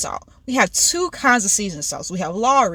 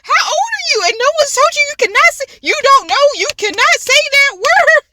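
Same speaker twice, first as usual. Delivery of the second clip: high-pitched, incredulous scolding; worked-up, pitched-up questioning; retold indignant disbelief; 4 dB louder than usual. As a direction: scold the TV in dramatized outrage. Acted outrage at show contestant.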